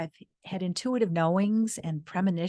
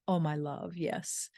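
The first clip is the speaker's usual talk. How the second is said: tender whisper; 2 semitones lower, 5 dB quieter than usual. Retold or imitated. Husband answering wife tenderly.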